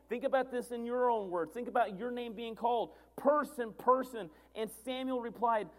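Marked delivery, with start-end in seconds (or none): 3.2-4.3 calling out. Acted. Voicing God calling your name.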